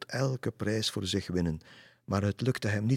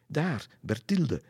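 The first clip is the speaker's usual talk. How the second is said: higher-pitched call, pointing her out; 8 semitones higher, 4 dB louder, slower than usual. A narrator's reading. Leander points out Berthilde to Lisse, calling out. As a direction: call it out, falling on the name. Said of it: "riep Leander".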